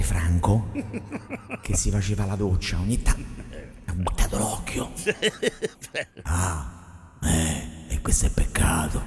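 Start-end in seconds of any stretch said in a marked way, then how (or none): 6.2-9.0 low, soft dubbing-actor voice; solemn movie-dubber Saint Peter. Acted. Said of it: "fa il doppiatore San Pietro".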